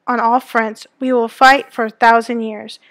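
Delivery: a lightly voiced rallying politician; mild speechmaker's firmness; politician declaring. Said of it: "The politician declared".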